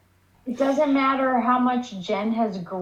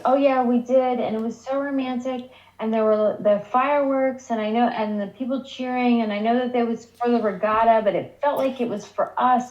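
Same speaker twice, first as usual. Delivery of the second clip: cheesy mock-gushing retelling; Jen; 3 semitones higher than usual. Jen telling Grams about the romantic fireworks, mock gushing. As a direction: imitate a lovestruck girl, lightly hammed-up. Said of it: "this part was so fucking cheesy".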